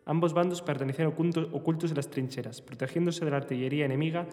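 novel narration, read steadily; voz de lectura. Acted. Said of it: "Una voz cavernosa de lectura". (lectura de novela en voz alta)

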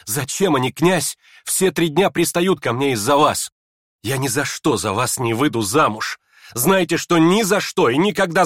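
hysterical. Acted. Aglaya to the prince, hysterical accusation. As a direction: lash out near tears. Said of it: "истерическом состоянии".

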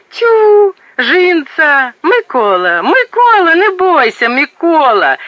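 high, loud calling out; relieved excited cry. Acted. Village woman calls to husband Mykola, loud and high. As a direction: shout to her husband with relief.

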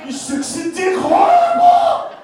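high, loud shrieked horrible; hammed-up screeching date; shrieking woman. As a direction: squeal it in a put-on woman's voice. Acted woman's quote.

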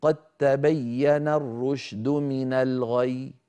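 قد تبين الرشد من الغي slow, the final ي thin and not doubled; wrong recitation. Shown as a demonstration. Teacher showing the mistake on قد تبين الرشد من الغي. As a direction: let the final ي of من الغي go weak. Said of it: "ما بصح الإنسان يقول".

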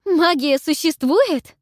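high, loud, slow stunned cry; shocked shriek. A narrator's reading. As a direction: shriek it in disbelief. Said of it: "громко завопила".

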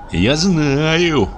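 mumbling from under the blanket; mutter. A narrator's reading. Husband mutters from under the blanket, voiced high. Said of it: "бормотал он".

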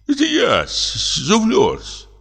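high, meek servant's voice; timid old prompter. A narrator's reading. Old prompter reassuring the frightened comic, high meek voice. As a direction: answer humbly, eager to calm him.

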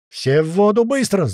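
loud, high urgent shout; yelled order. A narrator's reading. Doc sends everyone into the water, high yell. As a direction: shout the command, rising high. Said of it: "снова заорал Док".

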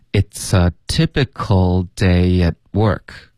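slow, careful "It's a typical day at work"; slow teaching model. Shown as a demonstration. Teacher models the whole sentence, slow and linked. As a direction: spell out each link slowly for learners. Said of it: "开头的it's跟a要连读".

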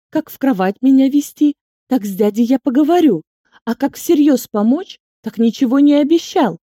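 loud, high furious mocking; enraged boss roar. A narrator's reading. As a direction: throw his words back, enraged. Inga mocks his words furiously.

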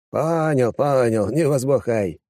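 reassuring. Acted. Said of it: "успокаивающе выставил руки".

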